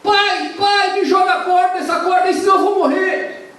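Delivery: high, loud panicked cry for help; desperate plea. Acted. Drowning son begs his father for the rope, panicked and loud. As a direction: beg your father for the rope.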